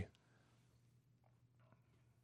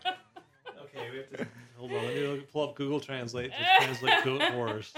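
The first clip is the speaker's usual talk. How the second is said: laughing. Real, not acted. Laughing at the joke.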